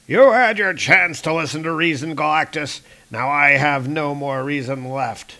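put-on grim old god out of patience; old King Thor. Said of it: "I'll just do his normal voice".

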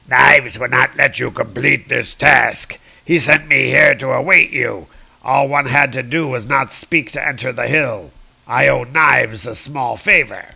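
menacing troll, mildly hammed up; a touch of comic-book villain grandeur; lightly voiced troll villain. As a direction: declaim it as a threatening troll, lightly. Voices the troll Ulik in retelling.

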